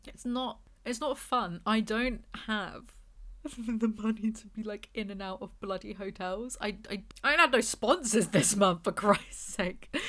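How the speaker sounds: tearful complaint with a wobble of laughter; plaintive and worked up, fading at the ends; mini breakdown. Real, not acted. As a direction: vent helplessly, half crying, half laughing. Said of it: "I just had a breakdown".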